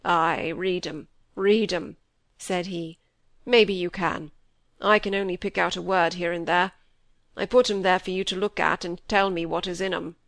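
put-on an old man's voice, heavy with regret; grieving old squire. A narrator's reading. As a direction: let the old father's remorse weigh each word. Old squire asks Molly.

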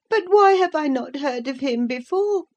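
put-on high childish voice, questioning; a boy asking anxiously; puzzled child. A narrator's reading. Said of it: "asked Linton".

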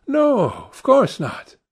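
very high, drawn-out protest; soaring, emphatic denial; emphatic cry. A narrator's reading. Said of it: "cried Dorian".

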